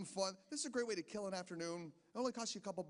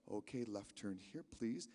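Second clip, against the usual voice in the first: low, soft, bored examiner voice; a lightly voiced tester reading his instructions; flat clipboard guy giving directions; driving examiner; 6 semitones lower, 4 dB quieter, slower than usual. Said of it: "he's gonna say something like".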